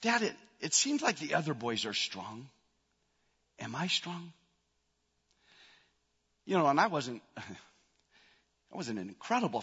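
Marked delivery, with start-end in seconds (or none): 0.0-4.3 put-on seven-year-old boy. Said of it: "and he goes".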